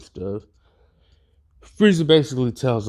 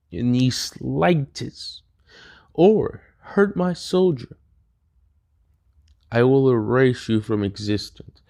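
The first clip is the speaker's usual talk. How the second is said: a hint of a threatening tyrant; Frieza voice; 4 semitones higher than usual. Frieza threatening Doctor Gero.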